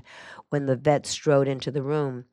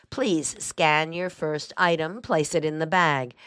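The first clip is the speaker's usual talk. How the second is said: slow, even checkout machine voice; computerized voice. Retold or imitated. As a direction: read it out like a self-checkout machine. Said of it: "the computerized voice might urge me".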